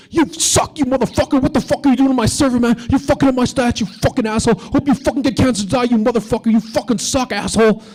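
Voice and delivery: high-pitched, ranting mock tirade; angry yelling. Comedian imitating an online gamer yelling through a headset, high angry rant. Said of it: "I hear somebody yelling at me".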